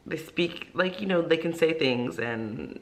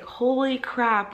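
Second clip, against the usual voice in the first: drawn-out holy crap; 6 semitones higher, much slower than usual. Retold or imitated. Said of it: "it's just like".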